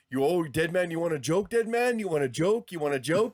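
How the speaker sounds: winded Yokozuna taunt. Retold or imitated. Yokozuna out of breath taunting Undertaker mid-match, winded mock voice. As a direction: puff out the taunt like a worn-out big man. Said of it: "out of breath going like".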